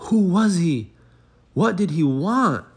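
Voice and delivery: high, loud, urgent questions; excited questions. Acted. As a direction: animals clamouring about the missing pig, high and loud.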